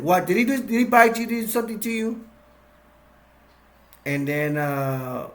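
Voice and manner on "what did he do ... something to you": higher, fast, worried questions; alarmed questioning. Acted. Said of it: "He's like".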